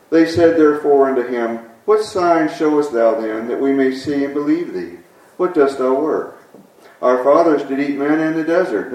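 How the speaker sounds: measured, formal Bible reading voice; scripture reading. Acted. Preacher reading scripture to the congregation, solemn. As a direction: read the passage with reverent weight. Reads scripture aloud, then blessing.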